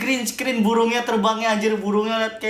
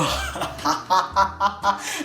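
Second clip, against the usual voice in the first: evil laugh; 2 semitones lower than usual. Retold or imitated. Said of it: "Ketawanya kayak tadi".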